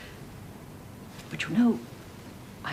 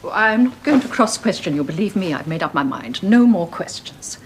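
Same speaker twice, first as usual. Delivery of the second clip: louder, slowing on the last words; emphatic promise; 6 dB louder than usual. Acted. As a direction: firmly declare no more questions. Mother resolving not to nag.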